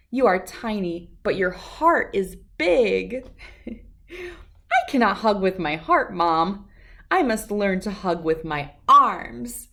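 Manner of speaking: lively storybook read-aloud with voices; reading to children. A narrator's reading. Reader sharing a picture book with children, lively storytelling. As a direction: read it like to a room of kids.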